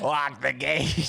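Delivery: slow, high eerie call; spooky voice. Acted. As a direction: draw out the words like a ghost. Spooky demon line.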